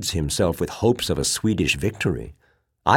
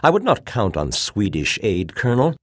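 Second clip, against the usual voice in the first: ringing, louder, scornful tirade; bitterness and scorn; 6 semitones higher, 7 dB louder than usual. A narrator's reading. Officer on his feet arguing against Swedish aid, bitter and scornful. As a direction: let the bitter questions ring out, raised. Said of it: "his words rang with bitterness and scorn".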